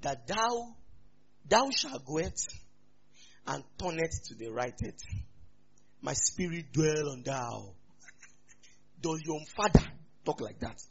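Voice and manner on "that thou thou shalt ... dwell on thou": lightly hammed-up scripture voice, halting; measured, solemn mock-archaic pronouncement with long pauses; mock King James God. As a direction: parody God speaking old Bible English. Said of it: "God talks in K J V".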